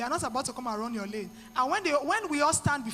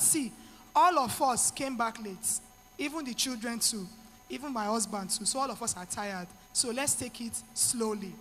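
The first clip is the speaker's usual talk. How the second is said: calming oneself down; 4 semitones lower than usual. Pretend. Stressed mother reasoning with herself after everyone came back late, calm. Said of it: "So you just calm yourself down".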